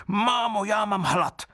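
a greedy little creature begging for food; hungry baby crying out. Acted. Wooden baby demands food from his mother, high and whining. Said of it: "A pak zase křičel".

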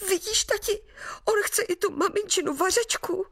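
hiding behind his father, the little sprite warns him; frightened little boy. Acted. A high child's voice, worried and urgent. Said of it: "zašeptal Hastrmánek".

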